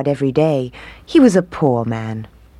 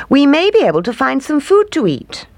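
wicked stepmother; 11 semitones higher, 3 dB louder than usual. Acted. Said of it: "she told them".

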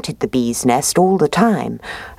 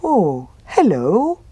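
happy bear; 5 semitones higher, slower than usual. Acted. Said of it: "said the bear happily".

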